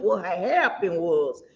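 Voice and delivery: slow, drawn-out Southern vowels; Southern accent. Shown as a demonstration. Co-host naming the new gossip segment, Southern accent. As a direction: lay on a slow Southern drawl. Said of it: "it has to be with the accent".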